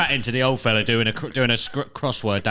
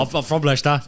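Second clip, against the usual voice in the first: hammed-up Leicester accent, raised pitch; bad Leicester accent; 4 semitones higher, 4 dB louder than usual. Interrupting the story with a mock Leicester accent. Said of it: "next episode in all Leicester accents".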